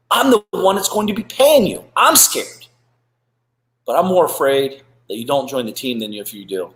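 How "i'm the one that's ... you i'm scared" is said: mock scared. Admits own fear, dramatized.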